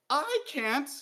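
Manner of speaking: high, loud, broken wail; sobbing cry. A narrator's reading. Dee breaks down before the king, sobbing. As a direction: break down completely. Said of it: "Now Dee was sobbing".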